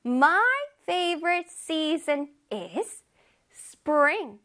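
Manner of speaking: slow, assured model sentence with a strong first word; confident. Shown as a demonstration. Teacher prompts pupils to answer, confident and slow. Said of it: "저 완전 자신감 넘치게".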